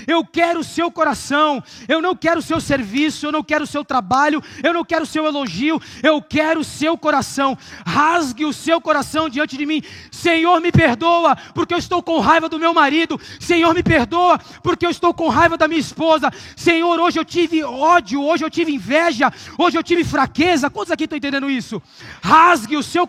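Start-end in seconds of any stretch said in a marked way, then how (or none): 0.1-9.8 shouted voice of God; shouted divine declaration; God speaking. Acted. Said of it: "o que o Senhor tá dizendo pra você". 10.1-20.7 confessing prayer. Acted. Voicing a believer's confession prayer.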